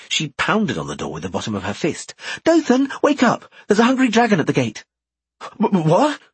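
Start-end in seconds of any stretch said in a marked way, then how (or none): 2.4-4.8 high, loud wake-up shout. Acted. Pounding on door, waking him. 5.4-6.2 groggy, stammering, just woken; dazed. Acted. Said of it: "came Dothan's groggy voice".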